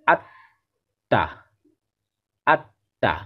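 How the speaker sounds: আত্মা drawn out very slowly; pronunciation. Shown as a demonstration. Teacher to pupils, slow model word. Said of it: "অনেকেই এর ভুল উচ্চারণ করে থাকে".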